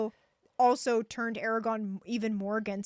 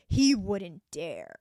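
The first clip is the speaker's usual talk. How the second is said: arrogant; 3 semitones lower, 3 dB louder, much slower than usual. Retold or imitated. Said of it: "just that arrogant".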